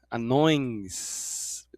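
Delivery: anões, said slowly with a faint I; slow pronunciation demo. Shown as a demonstration. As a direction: draw out anões to show the I. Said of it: "parece que um I ali". (anões lento com I leve)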